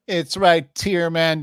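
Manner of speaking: first, milder take of the bit; put-on voice. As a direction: try the bit lightly. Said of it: "Again, again. one more time".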